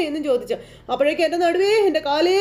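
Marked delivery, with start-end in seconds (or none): 1.3-2.4 wailing. Retold or imitated. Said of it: "ഇങ്ങനെ കിടന്ന് കാറുമ്പോൾ".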